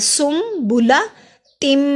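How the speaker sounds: सुम्बुला तिम drawn out, no nasal on तिम; slow tajweed demo. Shown as a demonstration. Teacher repeating the word slowly for students. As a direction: say तिम without ghunna. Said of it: "यहाँ पे गुन्ना नहीं करना".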